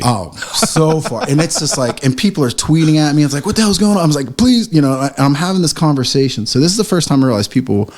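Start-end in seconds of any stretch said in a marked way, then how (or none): 3.4-4.0 high-pitched imitation of alarmed customers; retold exclamation, voice jumping high; mock alarm. Voicing alarmed tweets at him. 4.4-4.7 high-pitched mock plea; retold pleading. Pleading with angry ticket buyers.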